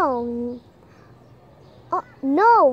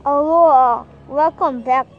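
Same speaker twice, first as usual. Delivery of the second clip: lightly voiced old grandfather; grandpa voice; 3 semitones lower, 5 dB louder than usual. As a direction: play the grandpa, a bit lower. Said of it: "할아버지 목소리로". (할아버지 목소리)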